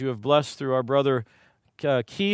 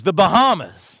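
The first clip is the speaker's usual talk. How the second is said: put-on a higher, louder little girl's triumphant answer; 4 semitones higher, 7 dB louder than usual. Little girl answering her daddy, higher and louder. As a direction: pipe it up like a proud four-year-old. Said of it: "And she goes".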